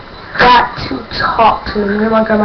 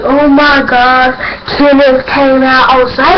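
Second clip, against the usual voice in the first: stoked fan; 4 semitones higher, 3 dB louder, slower than usual. Retold or imitated. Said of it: "I am stoked, I am wild out".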